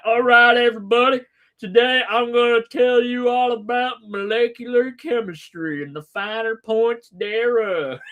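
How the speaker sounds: hammed-up lecture opening; mock professor. Streamer mocking professors starting a chemistry lecture. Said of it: "university professors are sitting there going like".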